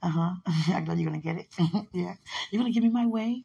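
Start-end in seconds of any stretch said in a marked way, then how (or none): 2.5-3.4 higher-pitched teasing question; playful wheedling. Pretend. Speaker teases about getting their own way, playful wheedle. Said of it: "I'm just playing".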